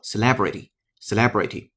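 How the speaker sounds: celebrity with stress on le, se-LE-bri-ty; correct pronunciation. Shown as a demonstration. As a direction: model celebrity clearly, stress on the second syllable. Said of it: "正确发音只有一个". (示范正确读音celebrity)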